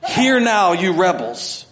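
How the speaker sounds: high, loud angry rebuke; angry Moses. Retold or imitated. Moses rebuking the grumbling people, angry. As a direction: snap at the rebels from above. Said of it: "He sounds like this".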